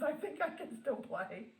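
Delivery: high-pitched puppy voice; speaking for puppy. Pretend. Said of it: "He says".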